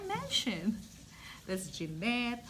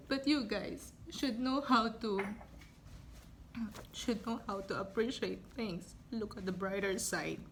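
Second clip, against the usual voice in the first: quiet weeping; 3 semitones lower than usual. Real, not acted. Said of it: "I'm sorry, I'm just emotional".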